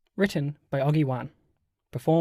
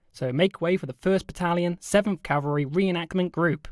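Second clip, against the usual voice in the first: lightly voiced announcer patter; airshow announcer. Announcer introduces battle reenactment group to crowd, mild hype. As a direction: build the hype a little. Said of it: "the announcer continued to build up the hype".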